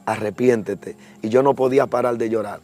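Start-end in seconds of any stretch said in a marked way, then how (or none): 0.1-1.0 sweet sublime voice. Retold or imitated. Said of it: "más dulce y más bonita".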